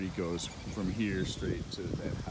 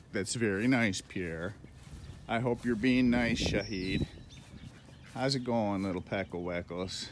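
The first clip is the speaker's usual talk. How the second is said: talking to ducks. Real, not acted. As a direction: coo to the ducks like toddlers. Chatting to ducks by name.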